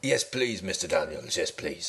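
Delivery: a country contestant greeting the host; West Country accent. Pretend. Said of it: "I'll talk like a West Country man then".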